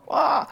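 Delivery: a short, high "Ah!" imitating his own yell; retold yell. Climber retelling his slip off the cliff, mock yell. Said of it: "I yelled".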